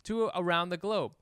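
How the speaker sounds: softly spoken sponsor testimonial; podcast ad read. Acted. Co-host endorsing a commerce platform, soft ad read. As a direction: read the copy as a personal endorsement.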